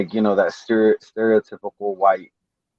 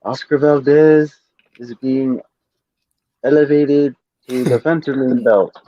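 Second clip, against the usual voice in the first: Mauricio Sulaiman impression; 3 semitones higher than usual. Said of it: "I can hear Mauricio Sulaiman now".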